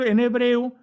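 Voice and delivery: normal talking voice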